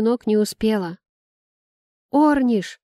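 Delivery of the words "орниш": loud, higher call that falls; shouting a name. A narrator's reading. Namiya spots the carriage and shouts to Ornish, loud call. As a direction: shout his name across the street. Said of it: "закричала Намия".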